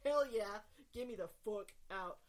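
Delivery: eager yes. Acted. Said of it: "they are like".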